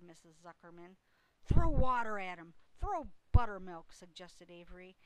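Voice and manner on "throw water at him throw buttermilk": loud, raised call; urgent shout. A narrator's reading. Boy suggesting a cure for fainted pig, loud shout. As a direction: shout out instructions.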